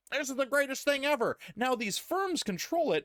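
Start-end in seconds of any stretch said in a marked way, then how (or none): 0.1-1.4 mock enthusiasm. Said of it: "everybody was just like".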